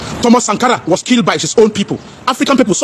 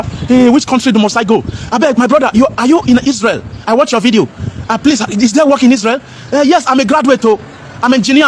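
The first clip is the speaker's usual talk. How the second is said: hint of a pleading caller; begging job seeker. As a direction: plead like a desperate young graduate asking for help. Imitating desperate job seeker begging.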